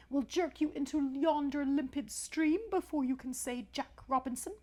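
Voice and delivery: emphatic, wordy snake warning; pompous rock snake. A narrator's reading. Python rock snake warning his young friend, pompous and urgent. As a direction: lecture urgently in grand phrases. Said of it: "this is the way bi-coloured python rock snakes always talk".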